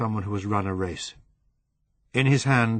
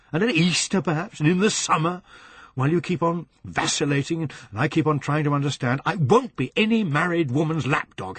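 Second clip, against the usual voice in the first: 1 bitter tirade; 6 semitones higher than usual. Acted. Furious tirade at Helen.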